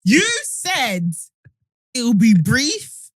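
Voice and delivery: slow, drawn-out mock complaint; hammed-up grievance. Jesus reminds God it would be brief, mock aggrieved. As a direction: protest like you were badly misled.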